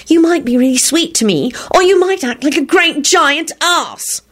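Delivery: wail. A narrator's reading. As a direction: wail on, dragging the insult out. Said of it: "Solange wailed".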